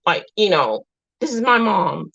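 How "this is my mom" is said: lightly voiced little boy, slightly higher; a hint of a child staking his claim; possessive little boy. Son telling his sister, lightly imitated possessive child. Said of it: "Like he tells his sister".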